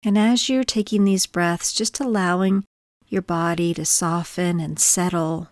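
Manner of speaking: gentle body-scan guidance with long pauses; calm, measured meditation voice; guided meditation. Acted. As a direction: ease listeners into stillness, leaving space between phrases.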